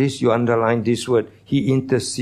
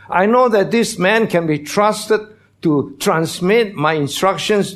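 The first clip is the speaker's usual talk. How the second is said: voicing God; 5 semitones higher than usual. Voicing God's words.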